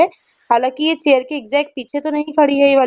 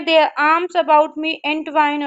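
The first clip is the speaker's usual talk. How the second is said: 1 slow reading; much slower than usual. Shown as a demonstration. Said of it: "teacher reads poem aloud".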